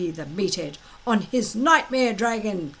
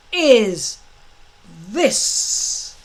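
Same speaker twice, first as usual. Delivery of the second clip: demanding; 6 dB louder than usual. Acted. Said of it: "demanded Gobber the Belch".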